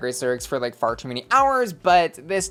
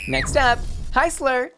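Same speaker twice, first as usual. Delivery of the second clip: hyped announcement; 9 semitones higher than usual. Acted. Announcing next queen, hyped intro.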